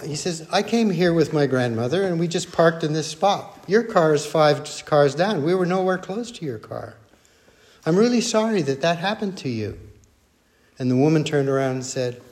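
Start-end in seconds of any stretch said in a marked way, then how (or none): 0.5-9.8 softly reasoning, acted-out calm. Grandson explains himself to the accusing woman, very calm. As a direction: explain gently without arguing back. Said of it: "Very calm".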